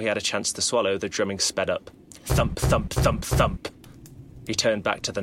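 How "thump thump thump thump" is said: each thump climbing much higher; rising drumbeat. A narrator's reading. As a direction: build the beats upward in a frenzy. Drumming speeds up.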